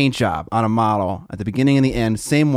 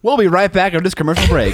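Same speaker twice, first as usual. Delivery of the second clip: loud, high-pitched mock ad-break throw; mock announcer; 8 semitones higher, 5 dB louder, faster than usual. Throwing to a fake commercial break, mock announcer.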